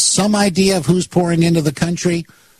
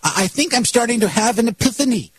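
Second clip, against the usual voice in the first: mock epiphany; 4 semitones higher than usual.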